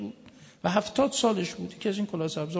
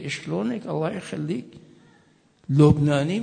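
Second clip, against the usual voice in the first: lightly voiced Iraqi customer greeting in Arabic; Iraqi Arabic accent; 6 dB louder than usual. An Iraqi customer greeting the shopkeeper, Iraqi Arabic accent. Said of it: "عراقی میاد، میگه".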